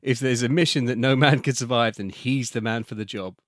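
lightly voiced trailer announcer; a touch of trailer drama. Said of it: "And another one".

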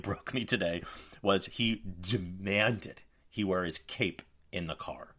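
ordinary talk

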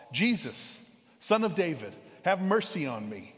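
a beggar's plea, called out moderately loud; yelling out. Retold or imitated. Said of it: "so he yells out".

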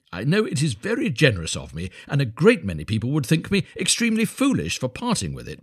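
lightly voiced self-satisfied miller, deliberate and emphatic; pompous, magnanimous miller. Miller offering Hans his broken wheelbarrow, lightly pompous. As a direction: make a grand show of generosity.

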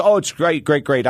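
fake cheerful. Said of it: "When in actuality, he was pissed off".

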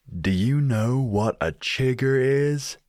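chirpy Midwestern uncle calling across the lake; Midwest American accent. Retold or imitated. Smiley patriarch calls out to British guest, Midwest American accent. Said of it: "said it with his whole damn chest. So, in that accent".

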